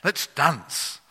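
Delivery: hammed-up joyful shouting; ecstatic congregation. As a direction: cry out like a thrilled church crowd. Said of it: "the duck congregation go".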